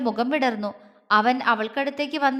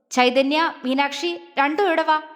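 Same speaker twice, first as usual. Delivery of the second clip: angry summons; 2 semitones higher than usual. Acted. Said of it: "അഗ്നിയുടെ ദേഷ്യത്തോടെയുള്ള ശബ്ദം അവിടെ ഉയർന്നു".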